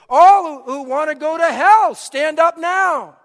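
high, full-voiced bellow, slowing at the end; loud acted pulpit roar; bellowing pastor. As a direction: imitate a pastor bellowing at the top of his voice. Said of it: "The pastor then bellowed at the top of his voice".

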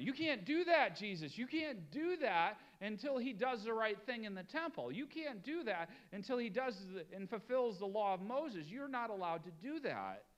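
sharp, high protest against Jesus; the outraged scribe scolding; indignant objection. Acted. Objectors protesting Jesus forgiving sins.

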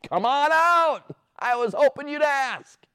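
high, slow, welcoming call; cheerful invitation. Acted. Jesus calling Peter out onto the water, cheerful. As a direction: invite him out gladly.

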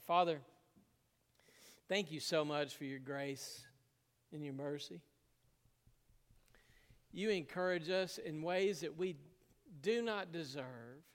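earnest pastor's prayer. Acted. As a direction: pray to God on behalf of the church. Leads closing prayer.

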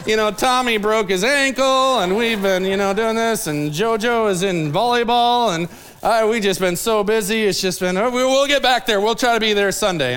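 imitating flustered, apologetic churchgoers; uncomfortable excuses. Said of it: "they just get so uncomfortable".

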